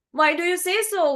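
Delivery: high, quick challenge; questioning swan. A narrator's reading. Swan answers the admiring crow, quick high questioning. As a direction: ask back briskly in a high voice.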